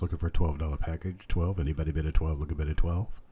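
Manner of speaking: rhythmic auctioneer bid calling. Acted. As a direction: keep the bids rolling like an auctioneer.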